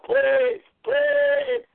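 pleading. Real, not acted. Begging the call to work.

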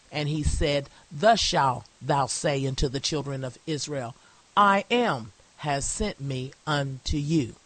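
measured pulpit reading with spaced phrases; deliberate, declaimed Bible verse; emphatic scripture reading. Acted. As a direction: read it out deliberately, weighting God's words. Reads scripture aloud with emphasis.

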